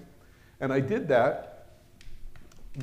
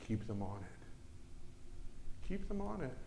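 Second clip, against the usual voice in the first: sinister whisper; 12 dB quieter, slower than usual. Acted. Demon's instruction, whispered.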